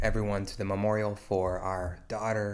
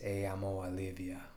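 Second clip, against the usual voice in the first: tender whisper; 2 semitones lower, 7 dB quieter than usual. Real, not acted. Pastor whispers tears' words.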